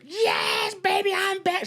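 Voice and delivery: high, excited yell of a comeback; excited scream. Retold or imitated. Leslie greets the crowd with a thrilled high yell. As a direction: belt it out like a star hitting the stage. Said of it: "she's like".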